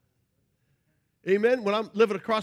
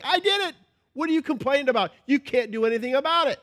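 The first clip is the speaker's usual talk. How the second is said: God's voice; 7 semitones higher, 6 dB louder than usual. Retold or imitated. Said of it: "And God's like".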